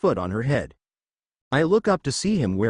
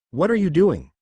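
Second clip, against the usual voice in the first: higher, louder shocked question; alarmed mother; 5 semitones higher, 4 dB louder than usual. Acted. Mother sees her son packing to leave, alarmed question. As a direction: demand an answer in alarm.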